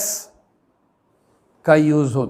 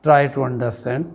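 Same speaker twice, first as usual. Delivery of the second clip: slow explaining; 2 semitones lower, much slower than usual. Shown as a demonstration. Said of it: "मेरा अभिप्राय कहने का है".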